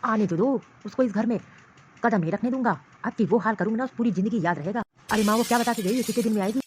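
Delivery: a possessive man fuming and threatening; angry husband. Acted. Husband rages to mother that his wife left without asking.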